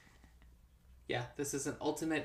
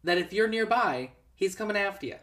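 higher, louder urgent pleading; exasperated pleading; 6 semitones higher, 7 dB louder than usual. Pretend. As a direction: plead with her to run. Pleading with movie character.

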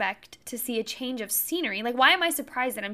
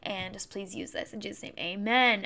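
rushed mumbled prayer. Real, not acted. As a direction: murmur a hurried prayer. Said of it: "say a quick prayer".

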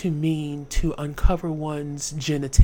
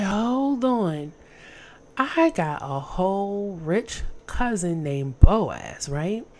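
excited scheme; 5 semitones higher, slower than usual. Acted. Naomi's bright idea.

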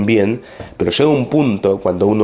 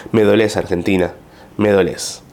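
hammed-up patriotic sorrow; mock-solemn lament over the country; mock dramatic lament. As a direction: lean on me like a tragic farewell. Reading the mock-dramatic post.

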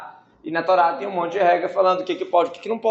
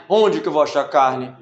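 mock bewildered Moses; 6 dB louder than usual. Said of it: "Aí ele".

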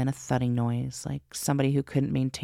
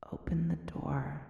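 soft, slow, higher ghostly plea; weak eerie plea; 4 semitones higher, 7 dB quieter than usual. Acted. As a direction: ask faintly and slowly, like a ghost. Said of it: "Words echoed from the keyhole".

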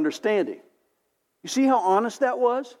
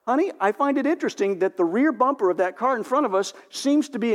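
tactful wife; 3 semitones higher than usual. Retold or imitated. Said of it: "she is so tactful".

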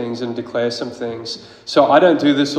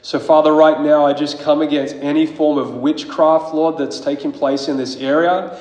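fervent prayer; 2 semitones higher than usual. Acted. Preacher praying over the church against witchcraft, fervent. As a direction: declare it to God with growing force.

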